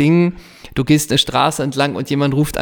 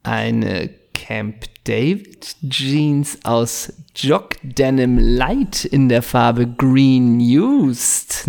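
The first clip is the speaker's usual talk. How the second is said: mock catalogue read; much slower than usual. Describing holiday outfit to listeners.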